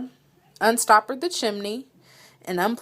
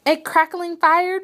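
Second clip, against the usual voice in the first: ventured; 8 semitones higher than usual. A narrator's reading. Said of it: "ventured the mouse".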